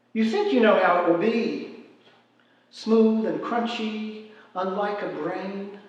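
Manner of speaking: deliberate spoken verse, pausing between phrases; measured verse recital; poetry reading. Acted. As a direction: read it as a poem, weighing each image. Reads own poem aloud.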